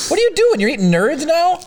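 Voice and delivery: high, shocked disbelief; surprised. Real, not acted. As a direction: squeak out the surprise. Shocked at her eating.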